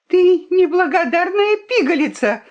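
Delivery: high-pitched, indignant outburst; angry cry. A narrator's reading. The fox rebukes the ungrateful princess, crying out. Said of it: "крикнула лиса".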